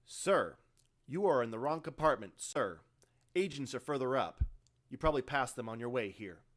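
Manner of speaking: loud, dismissive soldier; gruff marine. Acted. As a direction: brush off the officer. Carr brushes Laban off.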